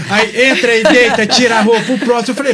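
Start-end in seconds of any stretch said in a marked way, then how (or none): 1.9-2.3 mock call while laughing. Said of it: "E eu tava igual a Bruna Sufichinha".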